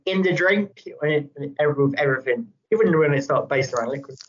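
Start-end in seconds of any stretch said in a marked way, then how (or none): 0.1-0.8 higher mock-Kiwi "In the drink"; New Zealand accent. Quoting Survivor contestants, New Zealand accent. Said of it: "Survivor New Zealand".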